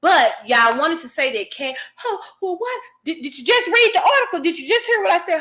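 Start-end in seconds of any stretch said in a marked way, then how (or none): 2.0-5.4 incredulous. Real, not acted. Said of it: "incredulous rant at viewers".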